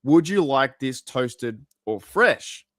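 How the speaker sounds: slow, drawn-out server's question; lightly voiced server, slowed right down; slow counter question. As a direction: spell out the choice slowly like a server. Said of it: "the lady behind the counter said".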